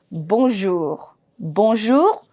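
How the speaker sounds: bonjour with the closing R pronounced; final R sounded. Shown as a demonstration. Teacher models the French greeting for learners, sounding the final R. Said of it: "I'm pronouncing till R".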